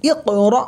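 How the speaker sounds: ইক র said short, র stopped abruptly; no stretching. Shown as a demonstration. Quran teacher repeating the correct reading, no stretching. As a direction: keep both vowels of ইক র unstretched. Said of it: "এই ধরনের কোনো টান হবে না".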